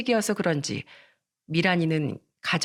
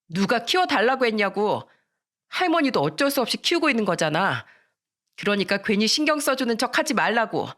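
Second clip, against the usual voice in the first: slightly raised, resentful retort; defiant anger; 3 semitones higher than usual. Acted. Miran rejecting the grandmother who raised her, angry. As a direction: push back with mild anger.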